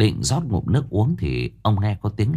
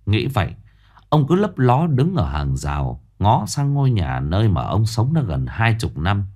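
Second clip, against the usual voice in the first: usual speaking voice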